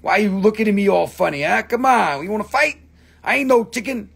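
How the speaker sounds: a bird itching for a brawl; angry chicken. Pretend. Chicken rock confronting the viewer, hammed-up angry voice. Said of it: "Now I'm an angry chicken".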